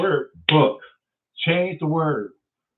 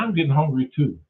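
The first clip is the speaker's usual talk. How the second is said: reply at an ordinary pitch; lightly voiced Eve. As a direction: lightly act Eve agreeing, near the usual voice. Adam and Eve dialogue, reply.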